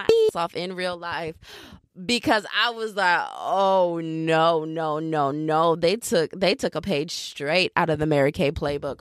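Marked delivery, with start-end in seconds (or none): 3.4-5.8 dismayed. Retold or imitated. Acted dismayed reaction.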